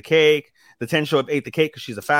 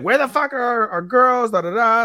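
high mock-furious girls; angry girls voice; 10 semitones higher than usual. The girls storming in looking for friends, high mock fury. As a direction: shriek it up like the gang bursting in. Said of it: "They're like".

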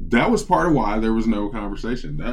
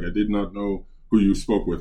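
put-on lower, lightly Indian-accented denial; mock formal Indian accent; imitated Indian accent; 4 semitones lower, 4 dB quieter than usual. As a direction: imitate an Indian-accented agent playing innocent. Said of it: "Dude had an Indian accent".

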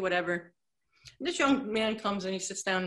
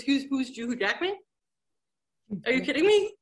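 incredulous; 4 semitones higher than usual. Retold or imitated. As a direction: act stunned she's never heard of him. Friend amazed she doesn't know.

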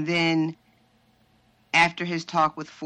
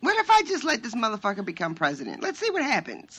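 mock-scheming God, pitched up at the end; playful meddling God; 5 semitones higher, faster than usual. Voicing God toying with humanity, playful scheming. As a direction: toy idly with people's fates, playfully.

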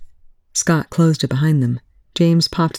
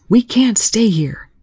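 shouting; 7 semitones higher, slower than usual. Acted. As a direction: yell it over the roar of weapons. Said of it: "he shouted over the roar".

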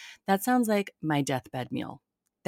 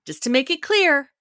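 mock Sharna; 10 semitones higher, 4 dB louder than usual. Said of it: "She was like".

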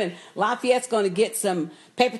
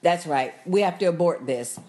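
low, measured imitation of Bill; lightly voiced calm vampire; a hint of Bill's low calm; lower, calm Bill; 5 semitones lower than usual. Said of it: "Bill says".

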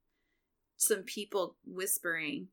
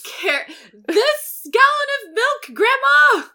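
high, loud, slow strained shout; strained grandchild yell; 16 dB louder, slower than usual. Pretend.

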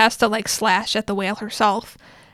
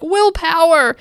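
mock heroic cry, higher; raised, playful battle cry; rallying cry; 6 semitones higher, 4 dB louder, slower than usual. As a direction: psych yourself up mid-battle.

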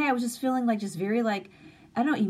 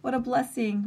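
much higher, happy exclaim; delighted mother; 8 semitones higher than usual. Retold or imitated. Mother answering her daughter on the phone, delighted. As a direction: gush with joy at good news. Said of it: "I was just like".

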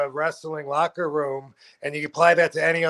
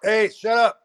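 raised, higher "shut up"; real scolding shout; 6 semitones higher, 5 dB louder than usual. Real, not acted. Interrupts himself to scold someone nearby.

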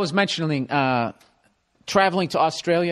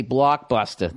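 Boston "blockbuster" ending in "-tah"; "blockbuster" the Boston way, less stretched; Boston accent; 5 semitones lower, slower than usual. Shown as a demonstration. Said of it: "they basically have a Boston accent".

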